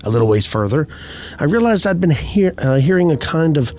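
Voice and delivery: measured storytelling read, pausing between phrases; unhurried campfire-tale narration; story narration. A narrator's reading. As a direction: read an eerie first-person account evenly and deliberately. Reads out a first-person eerie account.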